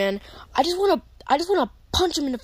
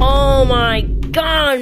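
slow, drawn-out fed-up groan; exasperated groan; 4 dB louder, much slower than usual. Acted. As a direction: drag it out, done with it. Exasperated at corny line.

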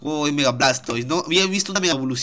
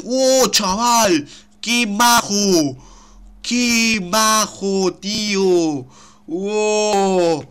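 drawn-out delight; 4 semitones higher, 4 dB louder, much slower than usual. Real, not acted. Admiring new Pokémon.

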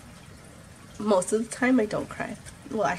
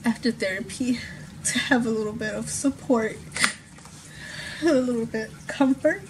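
crying, worn out; 3 semitones higher than usual. Real, not acted. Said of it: "And I just can't stop crying today".

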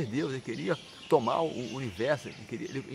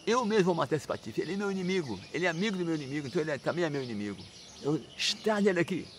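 higher-pitched, indignant vow; acted indignation; 3 semitones higher than usual. Indignant demon father swears to kill his son, outraged. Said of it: "ficou assim indignado".

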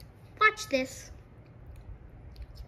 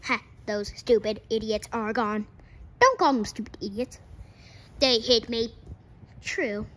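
robot voice; 3 semitones lower than usual. Pretend. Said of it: "I'm gonna stop talking like a robot now".

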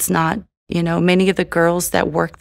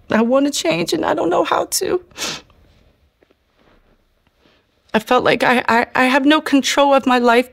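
high, pleading, near tears; tearful prayer; 3 semitones higher than usual. Retold or imitated. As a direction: beg God through the tears. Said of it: "and I was crying".

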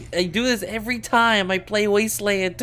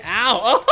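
higher, louder mock ow; fake pained ow; 8 semitones higher, 6 dB louder than usual. Shown as a demonstration. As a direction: yelp as if hit. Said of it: "Like that, for example".

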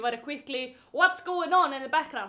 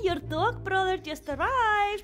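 pet talk; 2 semitones higher than usual. Real, not acted. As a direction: coo the news to your cat. Talks to her cat.

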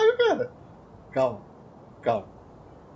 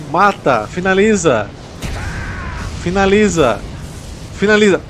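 urgent yelling; 2 semitones higher, 6 dB louder than usual. Real, not acted. Gamer urging himself to finish the boss, loud urgent shouts. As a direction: shout it like your life depends on it.

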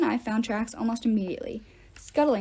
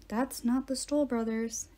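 softer, slow half whisper; 5 dB quieter, slower than usual. Acted. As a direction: hush it, danger nearby. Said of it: "Annabeth whispered".

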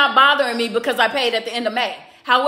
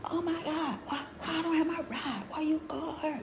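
a lightly raised, put-on complaining daughter voice; whiny daughter; 5 semitones higher, 15 dB quieter than usual. Mother mimics daughter complaining about cancelled ride, mock whiny. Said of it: "And she's like".

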